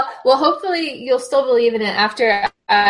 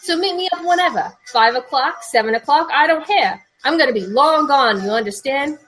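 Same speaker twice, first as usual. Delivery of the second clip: higher, agitated New York rant; acted outburst, pitched up with moderate volume; mild yell; 4 semitones higher than usual. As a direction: rant on at the caller, voice climbing. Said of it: "Richie started to yell".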